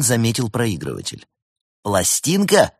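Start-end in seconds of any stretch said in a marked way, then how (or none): 1.8-2.7 higher, mocking question; amused. A narrator's reading. Cat teases host about the record player, amused. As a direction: ask it as if laughing at him. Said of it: "рассмеялся он".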